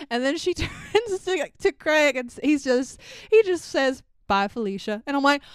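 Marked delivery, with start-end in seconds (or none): 4.3-5.0 offhand imitation of a brush-off; dismissive deadpan. Imitating Craig brushing off an annoying neighbor, dismissive deadpan. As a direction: toss it away without interest. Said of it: "doesn't even look at her".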